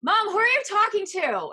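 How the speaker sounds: put-on high, loud kid calling mom; a kid catching mom cursing under her breath; child's question. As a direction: call out like a curious child. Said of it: "one of them goes".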